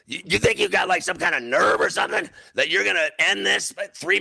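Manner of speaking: tinggi dan agak keras, menghardik berulang-ulang; mengulang amarah, suara dinaikkan. Retold or imitated. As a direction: meledak marah saat menceritakan ulang. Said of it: "One night I lost my temper".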